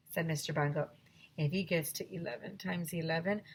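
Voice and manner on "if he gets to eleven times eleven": whisper. Acted. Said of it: "I whispered to Ryan".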